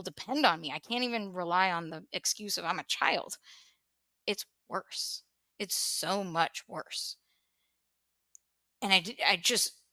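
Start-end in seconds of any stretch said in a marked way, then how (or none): 4.3-7.2 whispered and slow, sinking into the words; quiet despair. Real, not acted. Telling her brother how bad it got, in a slow, near-whispered despair. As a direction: let it fall to almost nothing.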